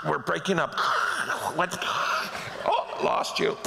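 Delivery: words broken up by mouth-made static; faked bad connection. Dodging the caller's request, faking a dropped call. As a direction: fake a phone line cutting out. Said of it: "I would go".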